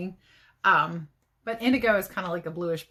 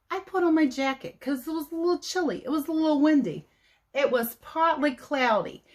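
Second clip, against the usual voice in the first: lightly voiced chatty TV weather lady, pitched higher; bubbly weather-girl report to the studio, a bit higher; playful newscaster persona, higher and brisk in spots; Babs McTalk-a-Lot; 3 semitones higher than usual. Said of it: "give you the weather report from today in my Babs voice".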